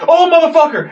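high-pitched imitated shocked yell; startled cursing. Danny spots the skunk in the hallway, startled cursing.

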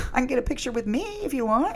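high, laughing through the joke. Real, not acted. Telling the relative the joke reply, laughing high. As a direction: giggle the offer out.

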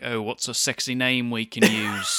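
slow, drawn-out put-on rocker voice; impression of a singer. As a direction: do a light, drawling singer impersonation. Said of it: that it was an impression of a singer.

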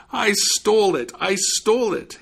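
high, loud storybook cry; screamed confession. A narrator's reading. Swindler confesses under threat of fiddling, high mock scream. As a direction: blurt it out in a mild scream, twice over. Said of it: "he screamed".

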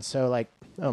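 a sudden crack in the voice. Real, not acted. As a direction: voice cracks mid-word. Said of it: "my voice just cracked".

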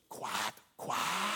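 breathy whispered quack, quack. Acted. Sister whispering to her brother, sly taunting whisper. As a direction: lean in and whisper it slyly. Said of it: "she leans over and whispers".

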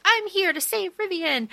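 high-pitched rescuer's announcement; mock heroic entrance. Warrior bursting in to save him, mock heroic entrance. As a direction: announce yourself as the put-on hero.

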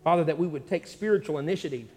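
earnest spoken prayer to the Lord. Real, not acted. Pastor praying over the church, earnest prayer. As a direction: pray it over the church, steady and sincere.

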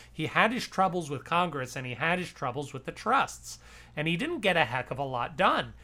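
a lightly voiced Harry Truman, brisk and gruff. History podcast host quotes Truman on Teddy Roosevelt, lightly voiced. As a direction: read it as Truman's blunt verdict, only lightly voiced. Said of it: "I like your Truman voice".

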